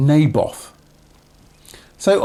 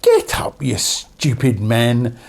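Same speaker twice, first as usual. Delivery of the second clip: impatient command; 4 semitones lower, slower than usual. Acted. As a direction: order him out of bed. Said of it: "said Jezebel".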